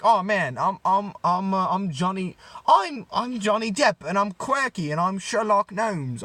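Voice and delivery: put-on failed British accent; lightly attempted British movie-star voice; Johnny Depp. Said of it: "I can't do a British Johnny Depp accent".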